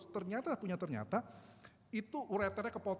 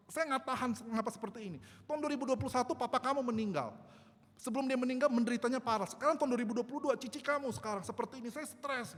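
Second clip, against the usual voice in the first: retold stressed outburst, higher pitched; distressed outcry; 4 semitones higher than usual. Mother crying out that she cannot bear it, retold distressed outcry. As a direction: imitate an overwrought cry, only partly raised. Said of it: "ketika dia teriak gitu, mama saya, stres gitu kan".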